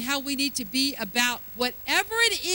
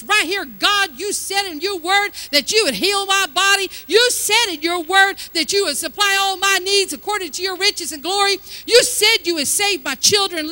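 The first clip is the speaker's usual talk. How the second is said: bold prayer; 3 semitones higher, 6 dB louder than usual. Retold or imitated.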